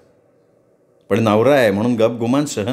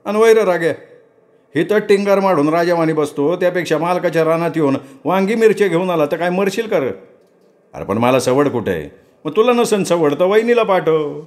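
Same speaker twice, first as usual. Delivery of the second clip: higher, complaining farmhand; servant Saravanya; 6 semitones higher than usual. Acted. Servant Saravanya complaining to Raghu about the load, lightly voiced. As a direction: grumble about the heavy sack.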